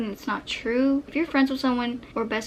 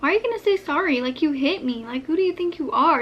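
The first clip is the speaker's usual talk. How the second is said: indignant retort; 4 semitones higher, faster than usual. Retold or imitated. Acts out rejecting friend's apology.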